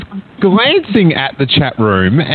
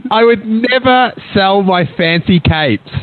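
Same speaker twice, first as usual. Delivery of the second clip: tag; 5 semitones higher than usual. Acted. Host acts mock outrage to caller.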